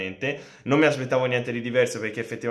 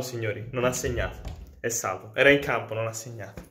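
breathless italian goal commentary; 3 semitones higher than usual. Pretend. Mock radio commentary of near-goal.

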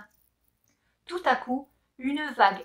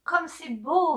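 delighted cry; 6 semitones higher, slower than usual. Acted. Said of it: "s'écrie-t-elle".

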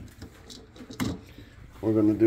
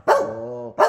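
high squeal of delight; excited coo; 13 semitones higher than usual. Real, not acted. Cooing to the cats.

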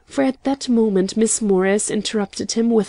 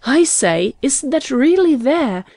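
higher-pitched, eager questioning; excited; 5 semitones higher, 4 dB louder than usual. A narrator's reading. Carlton wants to see the newspaper himself, excited. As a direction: ask it in excited disbelief. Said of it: "cried Carlton excitedly".

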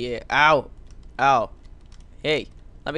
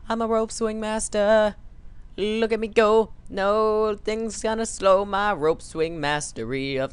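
boastful master; 6 semitones higher than usual. Acted. Self-styled rope swing master showing off, boastful. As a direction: proclaim it in a high, showy voice.

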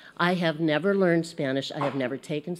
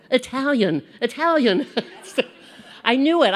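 louder and higher, pleased to find the word; excited recall; 5 semitones higher, 5 dB louder than usual. Real, not acted. Teacher suddenly recalling Italian for the class, excited. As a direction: blurt it out as it finally comes.

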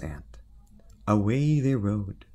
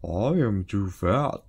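fat baker voice; 4 dB louder, slower than usual. Acted. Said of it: "The baker said".

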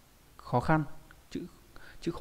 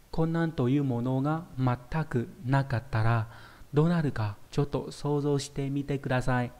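each word laid out for students; slow model reading; slower than usual. Shown as a demonstration. Teacher reading the Japanese sentence to students, slow and clear. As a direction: read the Japanese slowly and clearly. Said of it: "các bạn hãy thử tưởng tượng".

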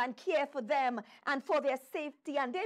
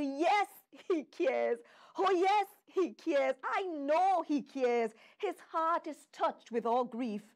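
fervent preaching. Real, not acted. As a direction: proclaim it firmly to the congregation. Preacher affirms answer to congregation.

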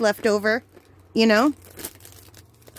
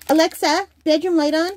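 voice command; 5 semitones higher than usual. Real, not acted. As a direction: call the command out clearly to the speaker. Giving a smart speaker command.

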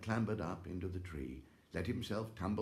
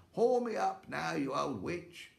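high, loud call upward; shouting up; 9 semitones higher, 5 dB louder than usual. Acted. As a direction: yell it up the tree. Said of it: "shouted up the tree".

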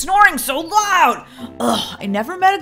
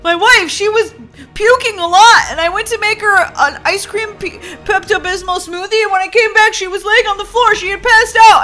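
frantic; 3 semitones higher, 3 dB louder than usual. Acted. Frantic emergency call.

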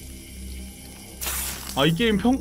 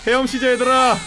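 laugh-crying; 6 semitones higher than usual. Real, not acted. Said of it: "왜 우냐고? 슬퍼서 우는 거 아니야".

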